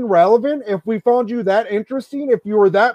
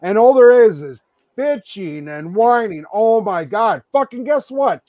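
exasperated rant. Real, not acted. Ranting at fans who complained.

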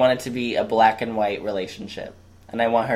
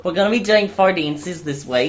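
higher-pitched mock Australian; Australian accent; 5 semitones higher than usual. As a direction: imitate an Australian dancer. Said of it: "two of them are Australian".

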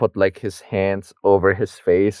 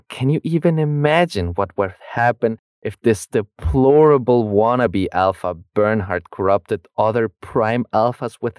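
mock tirade; 3 semitones higher than usual. Co-host voicing the director's tirade about Bernhard, mock outrage. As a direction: rant in exaggerated disbelief, stretching the words.

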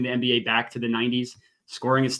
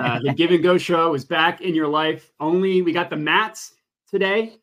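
Griffin impression; 5 semitones higher, 4 dB louder than usual. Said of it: "doing my best Griffin impression".

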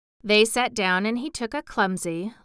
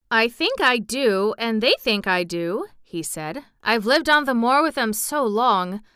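lightly voiced country lad, heartfelt emphasis; friendly moor boy; 4 dB louder than usual. Voices Dickon musing on birds.

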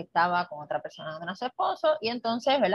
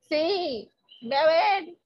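higher, urging voice; insisting; 8 semitones higher, much slower than usual. Retold or imitated. Magdalena urging the doubting apostles to go look, high and insistent. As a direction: push them to go see.

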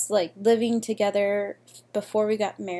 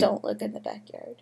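creepy deep voice; 6 dB quieter than usual. Acted. Spooky joke after police bit.

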